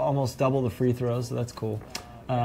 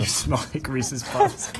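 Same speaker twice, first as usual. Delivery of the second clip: laughing; slower than usual. Real, not acted. Laughing at friend.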